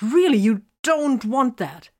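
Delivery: high, loud, slow wail. A narrator's reading. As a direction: cry the words out in despair. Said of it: "Vox wailed".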